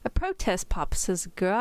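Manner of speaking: put-on amateur British girl voice; mock-British storybook reading; attempted British accent. Shown as a demonstration. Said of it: "in your best British accent".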